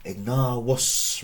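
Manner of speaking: Ignavus slowly, ig-NAAH-wos; long A in Ignavus, then a W sound for V. Shown as a demonstration. Teacher showing Latin pronunciation, W sound in Ignavus. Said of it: "Remember the V is".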